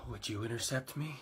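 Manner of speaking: low, soft question; creepy self-admiring murmur. Acted. Raptor musing about being intercepted, low and soft. Odd jet asks itself creepily.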